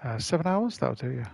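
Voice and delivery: whispered question; soft unvoiced whisper. Real, not acted. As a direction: breathe it out in a whisper. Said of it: "unvoiced whisper".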